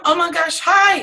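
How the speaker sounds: high, loud squeal of hello; excited greeting. Retold or imitated. Lisa greeting her husband's friend's wife, squealing excitedly. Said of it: "And I'm".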